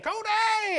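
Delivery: high, loud, drawn-out holler; yelling. Retold or imitated. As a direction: imitate a frantic woman still yelling a name. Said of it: "as she's still saying".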